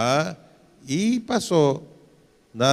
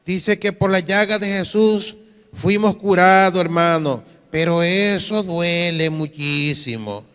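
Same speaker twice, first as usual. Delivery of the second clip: lightly voiced protesting church member; imitated believer's confession; 3 semitones higher than usual. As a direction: recite scripture evenly, then stretch out the complaint. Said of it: "mire esta confesión".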